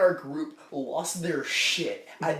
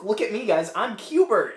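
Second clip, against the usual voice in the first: excited, attention-seeking mock child voice; excited show-off kid; 3 semitones higher, 4 dB louder than usual. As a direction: play a kid showing off to friends. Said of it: "he's like".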